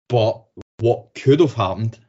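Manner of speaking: slow careful stress on could. Real, not acted. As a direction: weigh the word could. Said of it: "I have to stress the word could".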